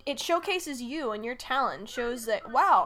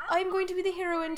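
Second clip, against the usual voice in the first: high, fast heroine gush; dramatic heroine voice; 6 semitones higher, faster than usual. Retold or imitated. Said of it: "she suddenly goes from".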